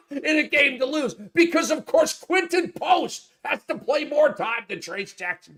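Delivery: words pushed out through laughter; laughing while talking. Real, not acted. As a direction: keep laughing through the complaint.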